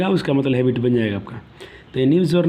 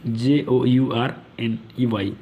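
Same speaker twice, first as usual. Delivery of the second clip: spelling aloud slowly; 4 semitones lower, much slower than usual. Shown as a demonstration. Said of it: "spelling out journey".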